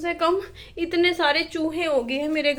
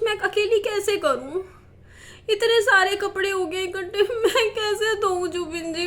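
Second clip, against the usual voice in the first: close to crying; 2 semitones higher than usual. Real, not acted. Overwhelmed mother listing the laundry to Zubin, tearful. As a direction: plead helplessly through near tears. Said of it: "पर रोना आ रहा है मेरे को".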